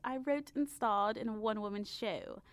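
put-on imperious old money matriarch; lofty aristocratic dowager voice; Dowager Countess. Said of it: "she doesn't sound like this. I sound like the Dowager Countess".

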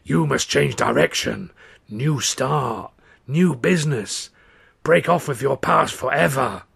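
slow rasping fortune teller; old woman's rasping voice. Retold or imitated. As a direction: rasp it out like an old seer. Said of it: "in the old woman's rasping voice".

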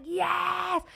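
squealed triumphant yes; child's voice. Retold or imitated. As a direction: crow it like a proud kid. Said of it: "And she was like".

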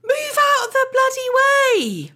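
high, slow irritated mock rant; exasperated grumble. Shopper mocking her irritation at dawdling blokes. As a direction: huff at the dawdlers.

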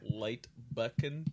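jumbled syllables. Shown as a demonstration. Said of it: "spoonerisms, but the middle".

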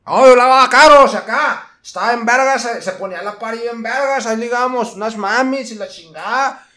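loud, high mock cholo bragging; hammed-up cholo swagger. Imitating a loud cholo at carwash.

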